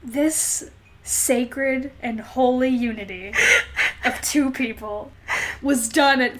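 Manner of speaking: slow, solemn ceremonial read; mock-solemn wedding reading. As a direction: read it like a sacred vow. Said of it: "do me the fantastic honor of reading".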